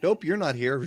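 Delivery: mock website voice. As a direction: play the website abruptly refusing you. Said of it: "Just be like".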